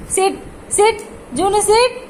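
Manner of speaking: high, short rising command; dog command. Real, not acted. Owner telling Juno the dog to sit, high rising command.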